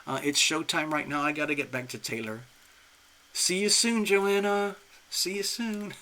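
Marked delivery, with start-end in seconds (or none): 3.3-5.9 high, happy send-off; delighted goodbye. Real, not acted. Host signing off to her new client, delighted. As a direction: call a giddy farewell up high.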